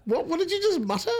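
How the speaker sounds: high, laughing question. Real, not acted. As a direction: laugh it out in disbelief. Laughing at co-host's remark.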